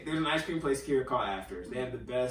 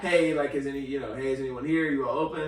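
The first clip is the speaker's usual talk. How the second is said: a bit louder, still courteous call; raised but polite; 4 dB louder than usual. Retold or imitated. Calling again to anyone in the back, raised but polite. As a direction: lift the voice but keep it friendly. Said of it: "I raise my voice a little bit louder, but in a still very polite way".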